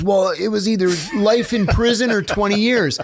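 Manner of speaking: a touch of a shrug in the voice; defensive excuse. Retold or imitated. Inmate justifies ratting to the cellmate, lightly voiced defensive. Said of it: "He goes".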